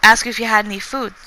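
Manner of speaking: put-on a clumsy stab at a thick foreign accent; little girl attempting English in a thick accent; attempted thick accent. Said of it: "that's apparently me doing a thick accent".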